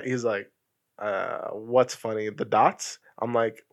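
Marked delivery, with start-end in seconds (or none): 1.0-3.0 slow, softer, puzzled reply; retold bafflement. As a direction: imitate a mildly baffled friend, low and slow. Acting puzzled friend reading test.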